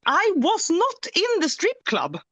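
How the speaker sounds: high, slow, laughing protest; laughing denial. Real, not acted. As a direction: giggle it out, protesting. Laughing denial of strip club.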